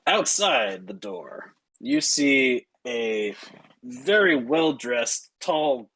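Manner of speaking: slow, measured reveal with weighty pauses; game master's scene-setting. A narrator's reading. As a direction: dole out the description slowly.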